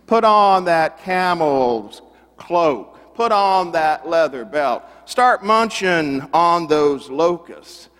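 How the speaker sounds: hammed-up fiery call to repent; mock prophet preaching. John the Baptist preaching at the party guests, mock stern. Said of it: "he starts to preach at you".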